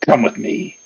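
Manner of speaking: understated growled command; low-key growl. Acted. Cloaked figure ordering the maker along, understated growl. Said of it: "he growls".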